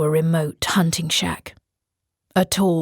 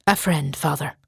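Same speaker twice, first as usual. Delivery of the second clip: a hint of a smiling reply; understated friendly answer; warm smile. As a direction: say it with a calm smile. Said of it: "replied with a warm smile".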